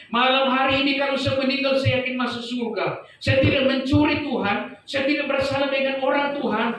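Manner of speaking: high, sustained pleading; imitated wailing plea on a high, level pitch; retold tearful, crying-out prayer. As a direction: cry out to God, re-enacting a desperate prayer. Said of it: "Berdoa dalam keadaan menangis, lalu berteriak-teriak".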